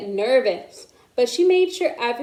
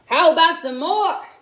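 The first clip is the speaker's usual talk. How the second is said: higher, louder asking for more; eager; 5 semitones higher, 5 dB louder than usual. A narrator's reading. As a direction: eagerly hold out the plate. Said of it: "said Mister Whiskers".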